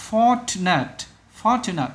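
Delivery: "Fortunate" carefully spaced, stress on FOR; first-syllable stress. Shown as a demonstration. Teacher pointing out a word to pupils, first-syllable stress. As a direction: hit FOR in "Fortunate", said twice. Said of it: "Nhấn âm đầu".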